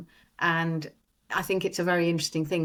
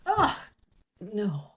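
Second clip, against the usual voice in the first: another variation. Shown as a demonstration.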